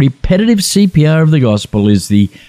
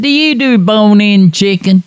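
put-on Alabama accent; 8 semitones higher than usual. Caller ordering at the drive-through in a mock Alabama accent. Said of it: "I found my accent for Alabama".

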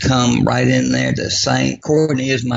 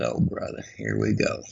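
voiceless exasperated mutter; whispered sigh of exasperation; whispered under breath; 9 dB quieter than usual. Retold or imitated. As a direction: breathe it out so she can't hear. Exasperated husband muttering to himself.

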